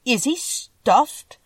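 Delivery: surprised lion, slow and high. A narrator's reading. Lion learns about the Scarecrow, surprised. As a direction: ask it drawn out, in astonishment. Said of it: "asked the lion in surprise".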